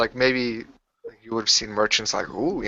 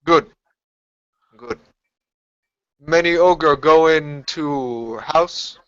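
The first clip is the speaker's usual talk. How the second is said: broken ogre speech; 4 semitones higher, slower than usual. Acted. Ogre speaks broken language.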